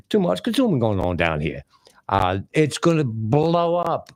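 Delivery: lightly mimicked Southern senator; Carolina senator. Commentator repeating the senator's warning, mock Carolina senator. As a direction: repeat it like a Carolina politician's catchphrase. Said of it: "Carolina, uh, senator way back".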